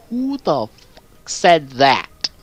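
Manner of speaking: slow, drawn-out disbelieving demand; slow indignant demand. Retold or imitated. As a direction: lean into each word in mock disbelief. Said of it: "I had to pause the video and go".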